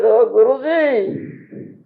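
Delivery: slow mock groan of overfull disciples. Disciples complaining to Guruji they are too full, slow mock groan. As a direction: drag it out, too full to move. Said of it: "The disciples said".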